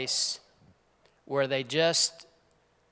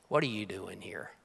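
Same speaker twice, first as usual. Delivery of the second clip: hushed voice; 9 semitones lower, 10 dB quieter than usual. Acted. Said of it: "that still small voice speaking".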